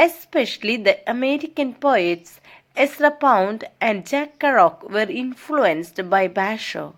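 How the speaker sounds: slow, measured read-aloud; textbook reading. Acted. Teacher reads English study notes to students, measured reading. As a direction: read it out slowly, phrase by phrase.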